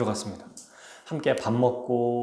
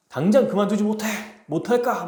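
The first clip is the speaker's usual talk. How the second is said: commanding shout; 7 semitones higher than usual. Acted. Disguised king ordering the cruel noble to stop, commanding shout. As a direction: order him to stop at once.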